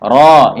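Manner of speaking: "Ro" heavy and open; a firm, full "Ro" with lips not pushed out; heavy rolled r into open "Ro"; thick ro. Shown as a demonstration.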